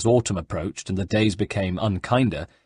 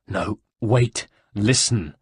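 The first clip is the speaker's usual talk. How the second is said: out of breath; slower than usual. Acted. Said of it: "panted Ezio, almost equally out of breath".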